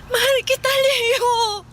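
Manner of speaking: a touch of crying in it; tearful confession. Acted. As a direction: say it through tears. Confessing love while crying.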